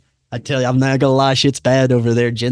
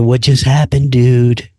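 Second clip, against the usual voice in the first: louder, punched-out bewilderment; bewildered; 5 dB louder than usual. Retold or imitated. Shaken man after a hard night, bewildered. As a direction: demand an answer, baffled and rattled.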